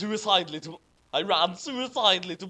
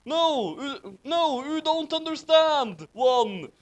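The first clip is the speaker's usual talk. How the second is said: mild mock scream, louder; sad scream; 10 semitones higher, 5 dB louder, slower than usual. Draco protesting to the others, mild mock scream. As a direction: plead loudly, half-hearted. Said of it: "screamed Draco sadly".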